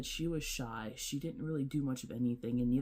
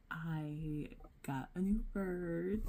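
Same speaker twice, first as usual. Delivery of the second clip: announcing big news; 3 semitones higher, slower than usual. Real, not acted. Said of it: "today I have some exciting news".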